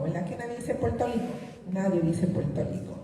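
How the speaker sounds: Puerto Rico said as pwelto liko, every r an l; overdone all-L Puerto Rico; mocking Puerto Rico. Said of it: "mucha gente dice por ahí para burlarse".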